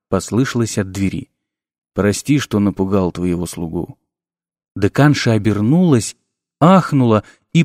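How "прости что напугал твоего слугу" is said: low, soft necromancer voice; sinister professor. A narrator's reading. Necromancer greeting the dean from the doorway, low and soft. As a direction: purr it low like a dark sorcerer.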